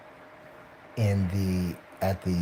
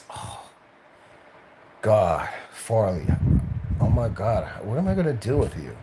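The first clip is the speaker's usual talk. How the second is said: fussy supervisor. Retold or imitated. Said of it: "he'd always be like".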